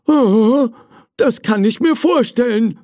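high voice breaking into laughter; amused servant, laughing. Acted. Servant amused by prince in toy chest, laughing. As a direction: say it high, then burst out laughing. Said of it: "musste plötzlich loslachen".

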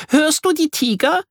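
high, eager whispered-game question; thrilled child. Acted. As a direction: ask with playful thrill. Miri playing jungle.

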